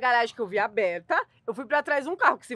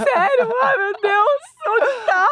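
high, loud mock panic with a sob; fake panicked mother; 10 semitones higher, 9 dB louder, much slower than usual. Mother hearing her son is kidnapped, mock panic. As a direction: ham up a terrified mom. Acting a mother fooled by scammers.

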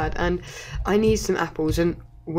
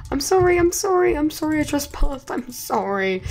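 mock panicked apology; 8 semitones higher than usual. Apologizing to enemies.

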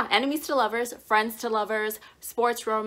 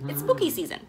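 spooky squeal; 11 semitones higher, faster than usual. Acted. Spooky season cry.

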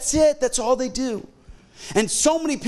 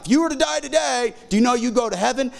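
put-on teen doorknocker pitch; 3 semitones higher, faster than usual. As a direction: play the eager teenage evangelist at the door. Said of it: "And I'm like".

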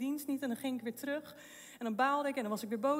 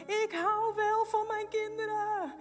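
higher, louder, slow cry out; shouting; 9 semitones higher, 4 dB louder, slower than usual. Retold or imitated. Woman shouting at the voice in her head, loud and slow. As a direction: shout it back defiantly, slowly. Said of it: "daar schreeuwde ik hardop uit".

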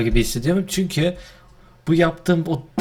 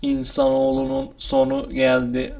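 toy robot voice; slower than usual. Pretend. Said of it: "Robot taklidi yapıyorum abi".

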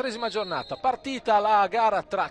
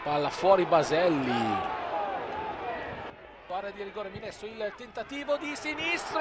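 quick, rising live match call; breathless italian goal commentary; 3 semitones higher than usual. Real, not acted. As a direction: ride the action breathlessly, building to the goal.

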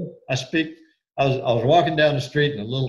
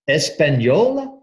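Italian asking; 3 semitones higher, 4 dB louder than usual. Retold or imitated. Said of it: "turned around, came back".

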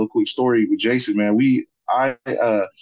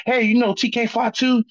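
coach voice; 12 semitones higher than usual. Retold or imitated. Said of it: "sports coaching voice".

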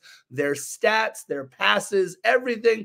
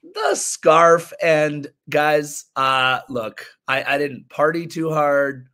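husky voice from a cold; rough, worn-out hoarse throat. Real, not acted. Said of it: "this sultry baritone voice".

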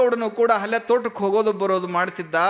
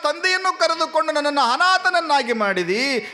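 high, keening plea to God that sinks at the end; grieving lament; 6 semitones higher than usual. Acted. Orphaned daughter laments her father's death to God, grieving plea. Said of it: "ದುಃಖಿತಳಾಗ್ತಾಳೆ".

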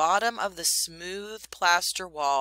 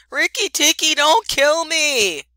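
almost weeping; 11 semitones higher, 11 dB louder than usual. A narrator's reading. Chuchundra pleads with the mongoose not to kill him, near tears. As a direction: cry out the plea on the edge of tears. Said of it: "almost weeping".

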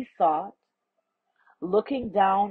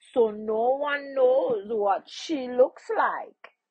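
lightly voiced, higher stranger; explaining stranger; 6 semitones higher than usual. Stranger explaining the princess's secret to the man, lightly voiced and higher. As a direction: spell it out with a lifted voice.

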